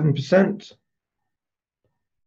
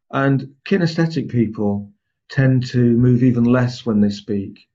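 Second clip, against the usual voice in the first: kinesthetic type voice; 2 semitones lower than usual. Shown as a demonstration. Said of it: "What did you notice about my voice".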